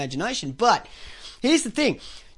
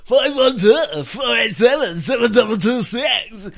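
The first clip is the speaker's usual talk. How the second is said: pukers' call-out. Retold or imitated. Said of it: "it's like the pukers".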